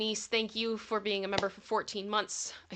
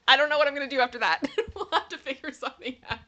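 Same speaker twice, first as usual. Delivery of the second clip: fast, giggly, higher; laughing; 6 semitones higher, 8 dB louder, faster than usual. Real, not acted. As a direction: laugh through the words. Giggling after the thirth joke.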